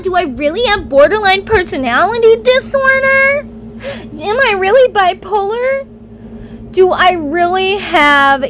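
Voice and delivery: spiral into panicked second-guessing; anxious self-doubt. Retold or imitated. Victim doubting herself after the abuse, anxious and pleading. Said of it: "That is what we do to ourself".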